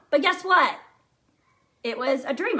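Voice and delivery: ordinary talk, nothing marked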